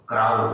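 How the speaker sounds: क्राउ said with the ow sound, not crow; crow as krau. Shown as a demonstration. Teacher to children, modelling क्राउ. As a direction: say क्राउ rhyming with how. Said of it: "यहाँ पे क्राउ हो जाता है".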